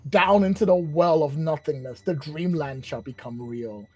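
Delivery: lightly voiced grandiose villain; villain monologue. Villain welcomes witnesses to his final reckoning, grand monologue. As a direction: hold court like a gloating villain.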